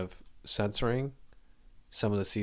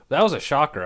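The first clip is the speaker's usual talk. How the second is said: shocked; 6 semitones higher, 7 dB louder than usual. Real, not acted. Shocked by Kobe's death.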